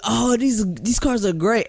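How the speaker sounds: high, hammed-up admiring voice; mock admiring cop. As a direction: play the goofy cops gushing over the cars. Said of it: "they were like".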